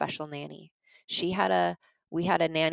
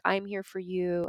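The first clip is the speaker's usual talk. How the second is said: slow tender reassurance. Retold or imitated. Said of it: "I began to speak to the two-year-old".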